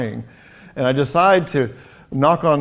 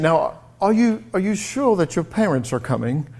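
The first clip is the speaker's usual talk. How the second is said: put-on adult checking on a child; 4 semitones higher than usual. Grown-up at school asks the waiting six-year-old, mild concern. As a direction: ask gently, as if doubting the child's answer. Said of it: "And she said".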